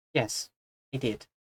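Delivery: soft, attempted, would-be Welsh accent. Voicing a woman who stares before replying, in an attempted Welsh accent. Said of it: "This is supposed to be a Welsh accent".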